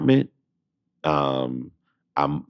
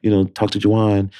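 a light, higher chipper voice for the caller; mimicking the cheerful caller, pitched up; 5 semitones higher than usual. Telling a friend about the Motown call, a lightly voiced chipper caller.

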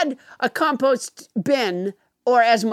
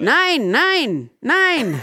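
German nein; 4 semitones higher, much slower than usual. Shown as a demonstration. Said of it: "the proper response is".

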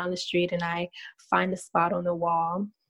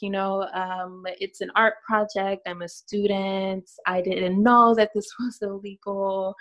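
slow, innocent student act with a nervous laugh; mild mock innocence to talk her way out of trouble; playing innocent; slower than usual. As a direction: play it down like a harmless student. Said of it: "play down what I'm doing".

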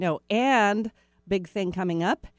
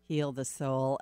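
ordinary delivery

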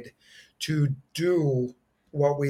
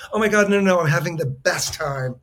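higher, louder delighted protest; mock gushing excitement; 4 semitones higher, 5 dB louder than usual. Twin reassuring his brother at the audition, loud and delighted. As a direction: gush that he is having a blast. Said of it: "And he goes".

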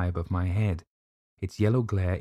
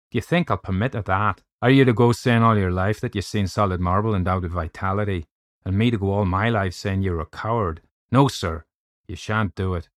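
hint of a forceful Irish doctor; lightly voiced indignant Irish doctor; 5 dB louder than usual. Doctor refusing to be called coward, lightly voiced Irish indignation. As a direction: lightly play the doctor laying down the law.

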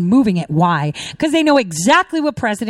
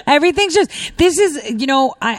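laughing from sheer anger, higher pitch; exasperated laughing; 4 semitones higher than usual. Real, not acted. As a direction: laugh through it, too pissed to finish. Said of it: "I think I'm laughing because I'm so pissed".

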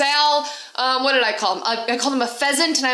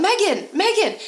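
high-pitched imitation of someone calling out; mock yelling; 8 semitones higher than usual. Stranger hailing her across a restaurant, mock yelling. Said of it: "someone starts yelling".

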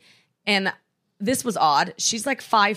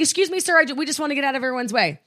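imitated pushy passenger, raised pitch; mock-polite request, high and hurried at the end; doing-a-favor entitlement; 5 semitones higher, faster than usual. Woman asking a father to let her by, mock entitlement. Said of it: "like they were doing us a favor".

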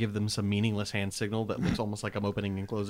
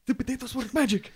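squeaky excited shout; 13 semitones higher than usual. Acted. Repeated, higher, odd voice.

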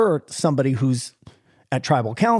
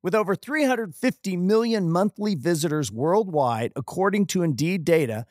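smooth, softer sponsor read; host reading the sponsor message; 3 dB quieter than usual. Acted. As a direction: read the ad like a polished spot. Reads sponsor ad.

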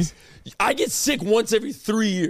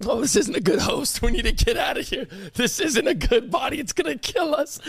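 voicing the virus; 3 semitones higher than usual. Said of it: "the virus was in your body. It was like".

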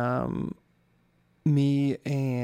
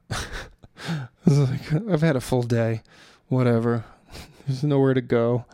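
laughing; 4 dB louder than usual. Real, not acted. Laughs at going to bed early.

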